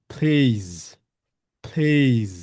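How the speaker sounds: plays ending in a buzzing z, not s. Shown as a demonstration. Teacher correcting plays to end in z. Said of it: "এটাকে কিন্তু প্লেস বলা যাবে না".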